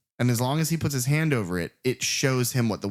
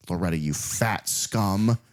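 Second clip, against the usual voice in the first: slow, louder mock tirade of insults; mock angry rant; 4 dB louder, slower than usual. Host voicing angry casino boss, slow mock tirade. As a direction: spit each insult out slowly like a furious boss.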